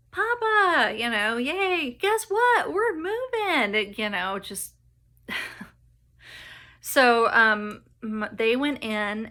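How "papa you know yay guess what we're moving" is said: put-on high, loud, thrilled kid calling Papa; excited child. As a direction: burst out like an overjoyed little girl with big news. Child's excited quote to grandpa.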